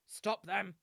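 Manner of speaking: loud, high shouted command; War Seer Okala. Acted. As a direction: call out an order across a crowded plaza. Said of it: "you hear the voice of War Seer Okala".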